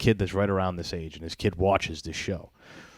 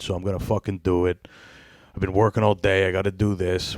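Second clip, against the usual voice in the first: lightly voiced blunt dad, grumbling about the baby show; imitating a friend. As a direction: grumble like a tired dad stuck watching kids' TV. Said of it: "I'm just imagining him".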